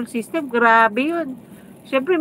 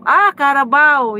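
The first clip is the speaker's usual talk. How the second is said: Carabao said louder and slower, pleased at finding the word; a bright aha as the English word Carabao lands; eureka; 3 semitones higher, 5 dB louder than usual. Real, not acted. Finding the English word for viewers, pleased aha. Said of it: "ano bang English sa kalabaw?".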